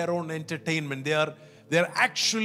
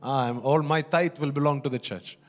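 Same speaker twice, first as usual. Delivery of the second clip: bargaining with God. Retold or imitated. Voicing a bargain made with God.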